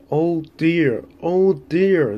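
high, loud groan of dismay; groaning lament. A narrator's reading. Damaged trucks pulled out of the way, loud high groaning. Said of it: "they groaned".

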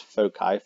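"foci" with a hard k, FOH-kye; "foci" ending like "sky", hard c; alternative pronunciation. Shown as a demonstration. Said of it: "you may also see that pronounced".

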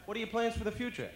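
high, loud reporter's question; press reporter. Acted. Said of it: "the press would have a heck of a time".

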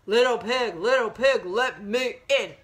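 loud, measured chanted demand; a hint of wolf, punching each beat; lightly voiced big bad wolf. Wolf knocks on piggy's door, loud chanted demand. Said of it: "It's the big bad wolf".

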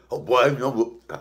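imitating dad's gruff talk; a hint of a deep-voiced daddy. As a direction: put on a father's deep old voice. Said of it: "My daddy got a deep old boy. He talk like this".

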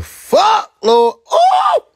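high, loud squeal of delight; overwhelmed outburst. Real, not acted. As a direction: burst into a high shout. Gushing over last night's date.

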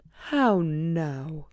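a grumpy cow's greeting; frowning cow. Acted. Cow joining the complaining animals, frowning and grumpy. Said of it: "said the cow with a frown".

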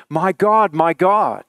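loud, high cry to God. A narrator's reading. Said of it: "He cried out".

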